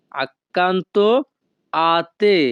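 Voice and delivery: "Accanto" then a pause before "a te"; split in two. Shown as a demonstration. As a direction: break it into two chunks.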